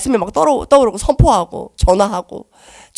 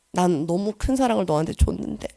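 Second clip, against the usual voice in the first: gentle divine voice; 8 dB quieter than usual. Pretend. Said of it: "라고 하실 것 같아요".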